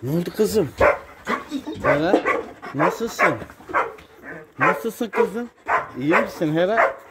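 high, sing-song talk to a dog; cooing pet talk. Real, not acted.

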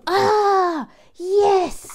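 very high, loud excited elf; squeaky elf voice. Acted. The elf cheers for Michael, very high and loud. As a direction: pitch it way up like a delighted little elf. Elf puppet voice takes over.

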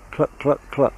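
half-hearted clucking like a hen; lightly voiced chicken sounds; mild mock hen clucks; chicken impression. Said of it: "That's about my best chicken impression".

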